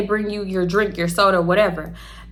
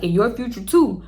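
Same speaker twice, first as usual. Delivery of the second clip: sexy. Retold or imitated. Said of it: "he kinda said it, like, more, I guess, sexy".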